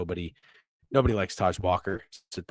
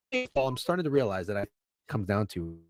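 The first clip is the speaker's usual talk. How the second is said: robot voice. Real, not acted. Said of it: "You just sound like a robot".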